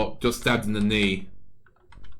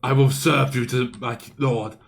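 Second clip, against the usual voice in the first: slow, menacing overlord; commanding doom voice that stretches each word; villain voice; slower than usual. Acted. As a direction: drawl the threats out slowly like a gloating villain. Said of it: "He was like".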